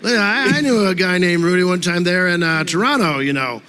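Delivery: lightly imitated halting, folksy comic cadence; a light impression of a comedian's cadence; Norm's cadence. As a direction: slip into a rambling storyteller's lilt with repeated starts. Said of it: "fall into his cadence".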